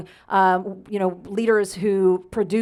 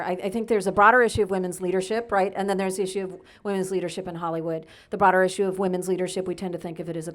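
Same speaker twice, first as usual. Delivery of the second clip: hurried, rapid-fire delivery; fast auctioneer talk; faster than usual. Real, not acted. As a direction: rattle it off quickly like an auctioneer. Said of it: "so I'll talk like an auctioneer".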